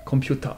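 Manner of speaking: "Computer" ending in open "ta"; "Computer" as "kompyuta", no R; Korean pronunciation. Shown as a demonstration. Teacher confirms student's attempt, Korean "Computer" ending in "ta". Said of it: "va devenir computer".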